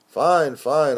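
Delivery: loud appeasing answer. Acted. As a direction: brush him off briskly. Poet soothes the editor.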